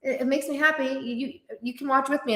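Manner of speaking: high, light, sunny voice to a teasing relative; sweet cheerful reply. Retold or imitated. Answering family digs about dramas, bright and sweet. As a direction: sing it out brightly and unbothered. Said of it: "Be like".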